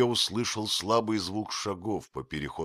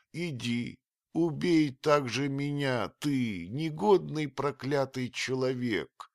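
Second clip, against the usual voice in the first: bitter accusation; 6 semitones higher, 4 dB louder than usual. A narrator's reading. Old nurse accusing the stranger of murder, bitter and high. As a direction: hurl the blame at the vagabond.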